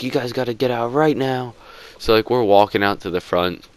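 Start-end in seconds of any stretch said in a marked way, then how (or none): 0.0-1.5 higher, put-on voice; mock manager voice. Manager ordering the boys out, put-on voice. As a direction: do a silly manager voice ordering them out. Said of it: "he was like".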